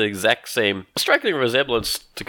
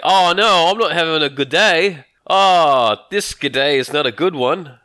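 loud, higher-pitched mocking imitation of a silly mayor; mock idiot mayor; 5 semitones higher, 5 dB louder than usual. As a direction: ham up a foolish cartoon mayor wailing "oh". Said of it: "he sound like an idiot".

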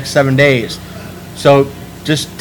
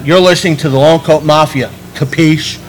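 put-on Italian accent. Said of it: "In an Italian accent".

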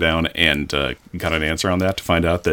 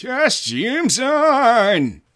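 drawn-out character exclamation; much slower than usual. Acted. Comic shout in character.

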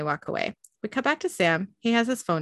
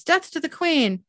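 dopey cartoon bellow; 9 semitones higher than usual. Orc shouting in the stocks.

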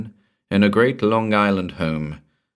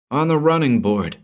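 snapped order; 7 semitones higher than usual. A narrator's reading. Merton ordering the guards onto the car, snapped. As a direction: bark the order fast. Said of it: "he snapped".

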